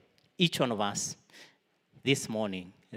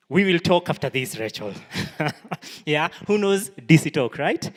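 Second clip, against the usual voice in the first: playful; 6 semitones higher, 11 dB louder than usual. Real, not acted. Joking with congregant Rachel.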